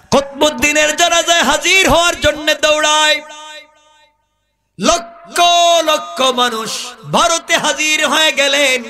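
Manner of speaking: high-pitched, sustained sermon chant; full-force preaching. A narrator's reading. Preacher telling of crowds rushing to the funeral, high chanting sermon. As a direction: preach it high, holding the line endings.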